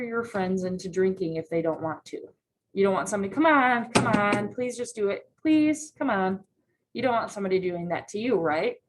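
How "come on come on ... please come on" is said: pushy pleading. Retold or imitated. Friend pressuring you to drink, pushy pleading. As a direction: nag like a pushy friend at a bar.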